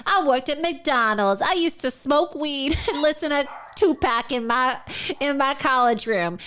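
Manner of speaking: mock parody. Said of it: "me pretending to be".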